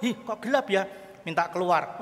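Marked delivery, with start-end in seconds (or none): 0.1-0.9 put-on raised, mildly scared child; mock fright. Preacher imitating his children at the cinema, mock frightened. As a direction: imitate a child startled by darkness. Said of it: "mula-mula takut".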